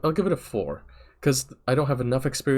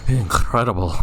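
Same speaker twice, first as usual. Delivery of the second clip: deadpan copy of the game voice; mock voice actor; 5 dB louder than usual. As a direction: echo it like a voice actor. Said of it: "Can I be a voice actor too?".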